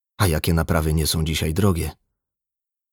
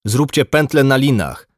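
higher, louder skipper's command; shouted order; 7 semitones higher, 5 dB louder than usual. A narrator's reading. Skipper orders a rescue from the water, shouting. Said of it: "krzyknął szyper".

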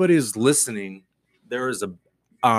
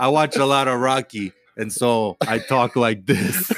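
impression of George. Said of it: "a quick impression of you doing me".

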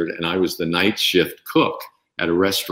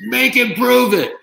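high, slow, loud heckle; heckler demand; 5 dB louder, slower than usual. Retold or imitated. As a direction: dare him from the crowd. Heckler in dining room.

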